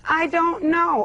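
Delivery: imitated denial. Caller quoting the sitter's denial, mimicking. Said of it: "She said".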